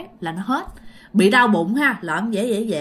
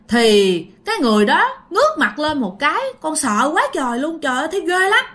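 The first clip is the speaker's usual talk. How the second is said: higher, agitated voice of a scared witness; acted fright, pitched up; frightened retelling; 5 semitones higher, 4 dB louder than usual. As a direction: recount the scare in a raised pitch. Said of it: "dì rất là sợ".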